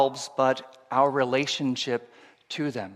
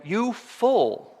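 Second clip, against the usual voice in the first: stern God; 8 semitones higher than usual. Retold or imitated. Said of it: "God at this point says to him".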